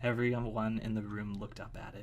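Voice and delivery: low-key, even story reading; story narration. A narrator's reading. Reading a chapter to listeners, even story narration. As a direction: read it evenly, a little softly.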